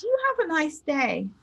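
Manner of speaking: kindly imitated goodbye, rising then falling; softened farewell. Old customer leaving the teller who cheered him, kindly.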